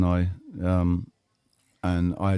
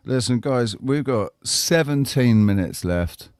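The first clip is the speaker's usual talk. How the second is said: Q reference; 5 semitones higher, 3 dB louder, slower than usual. Retold or imitated. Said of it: "that's a Q reference right there".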